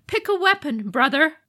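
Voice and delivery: high, taunting demon voice; mocking demon lord. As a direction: sneer the offer. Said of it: "Fu Leng offered".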